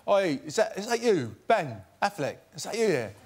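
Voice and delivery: put-on a jokey British accent calling out. Stranger calling out in a mock British accent. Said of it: "That's my British accent".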